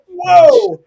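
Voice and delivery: high, loud startled whoa; mock surprise. Retelling his reaction to the lady, a high loud startled whoa. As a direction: play your own startled reaction big. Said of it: "And I was like".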